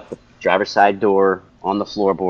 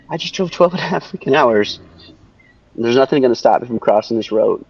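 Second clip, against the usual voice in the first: retold defiant vow; 3 semitones higher than usual. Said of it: "I said that up here".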